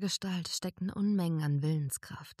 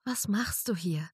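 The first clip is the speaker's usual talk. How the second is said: whisper; 4 semitones higher than usual. A narrator's reading. Surprised reunion in hiding.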